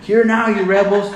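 high, loud shouted rebuke; preacher acting out an angry yell; yelling at them. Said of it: "He begins to yell at them".

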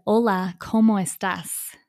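thick English-accented Spanish, slowed down; very strong English accent. Shown as a demonstration. Teacher showing what would change someone's opinion, very strong English accent. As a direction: say it like an English speaker, with English vowels. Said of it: "with a very strong accent".

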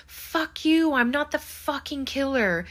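high-pitched, acted indignant outburst; mock angry protest. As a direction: protest hotly, imitating a frantic suspect. Acted angry denial after accusation.

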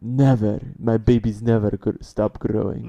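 put-on grandmother in a Russian accent; thick Russian accent, loud and proud. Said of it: "That's the best Russian accent I can do".

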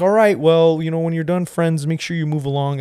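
lightly imitated condescending park worker; mock patronizing. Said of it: "is so patronizing".

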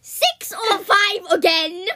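loud, drawn-out word by word; slow, loud objection; slow, emphatic. Real, not acted. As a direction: stretch out every word reluctantly. Balking at a repeat film.

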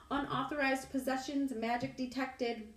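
high, slow alarm announcement; machine voice. A narrator's reading. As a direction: sound like a security machine. Metal detector announcing.

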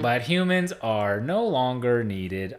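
slow robot, beeps pitched high; toy robot voice. Retold or imitated. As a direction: beep boop like a toy robot. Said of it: "they still talk like this".

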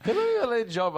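squeaky high voice; high-pitched put-on voice; high mock voice. Voicing a character in film.

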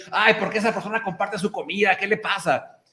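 mock scandalized gossip, laughing through it; laughing mock critic. Host laughing while imitating a critic of posted food.

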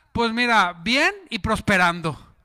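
positive answer. Retold or imitated. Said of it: "Por qué no cambiamos".

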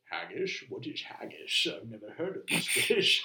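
low, mumbly mock Sean Connery Scottish; Sean Connery impression. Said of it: "And Sean Connery goes".

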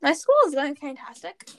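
mildly sarcastic praise; understated sarcasm. Real, not acted. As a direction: say it as if meant, with light irony. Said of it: "I'm just being sarcastic".

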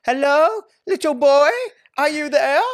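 high, loud call in a put-on Dutch accent. Imitating girl searching for little boy, mock Dutch accent. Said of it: "In her, like, Dutch accent".

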